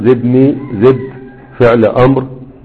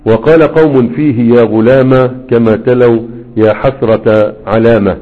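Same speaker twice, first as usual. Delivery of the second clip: verse recitation. Acted. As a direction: recite the poem line by line, measured. Teacher recites the Alfiyya verses. (إلقاء شعري متأنٍ)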